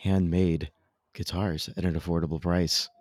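measured radio ad delivery; announcer-style guitar advertisement; sponsor ad read. Real, not acted. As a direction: read the sponsor copy, stepping down at the end.

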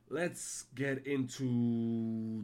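very slow drawn-out build; hype announcer. Pretend. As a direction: stretch it like a ring announcer.

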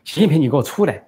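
shouting for 习近平 to come out; impatient shout. Retold or imitated. Daughter shouting at Xi Jinping, impatient and loud. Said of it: "这孟晚舟不耐烦地说".

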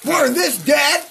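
put-on squeaky little kid begging dad; high kid voice. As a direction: voice the child, high and loud.

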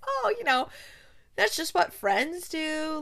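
high-pitched, lightly put-on breezy cover; feigned nonchalance. Reagan covering to Thane about a caller, feigned nonchalance. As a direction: brush it off airily, drawing out the end.

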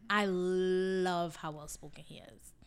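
slow, hushed whisper; admiring whisper. Real, not acted. Praising the podcaster to the cohost, slow whispered admiration.

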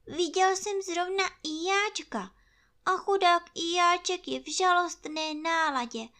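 rambling on kindly; chatty bear. Acted. Pú erzählt hoch.

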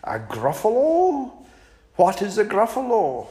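a high, quick curious snake; lightly voiced snake asking what a gruffalo is. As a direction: ask fast, intrigued. Snake asks.

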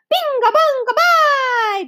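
high, loud gleeful chant; shouted. A narrator's reading. Small boy shouting nonsense to make noise. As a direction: yell it just to make noise. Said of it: "they screamed at the tops".

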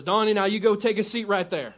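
put-on burly host with a slight West Virginia accent. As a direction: lightly imitate a West Virginia mountain man. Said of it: "a little bit of the accent".

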